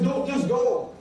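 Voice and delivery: "Don't" then a break, "just go" rising with a laugh; pause after don't. Shown as a demonstration. Preacher showing the confusing phrasing, "Don't, just go" with a pause and a laugh. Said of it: "Or somebody says".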